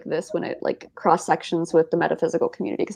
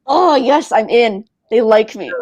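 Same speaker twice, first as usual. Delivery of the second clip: excited; 4 dB louder, slower than usual. Retold or imitated. Cat approval quoted.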